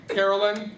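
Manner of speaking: CAROLYN with the last syllable reduced to "lin"; shortened name. Shown as a demonstration. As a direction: say Carolyn quickly, ending in a weak "lin". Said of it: "not exactly the best way".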